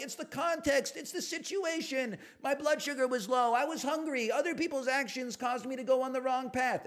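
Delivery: high whiny mock of excuses. Streamer mocking a viewer's excuses in a high whine. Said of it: "you're like".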